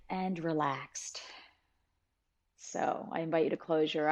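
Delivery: calm, measured guiding voice with long pauses; guided meditation. Real, not acted. Teacher guiding listeners to settle and breathe, calm meditation voice. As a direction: ease them into stillness, unhurried.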